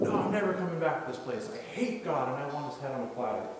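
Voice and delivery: retold angry refusal, easing off at the end; acted angry outburst. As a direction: imitate a defiant youth storming out.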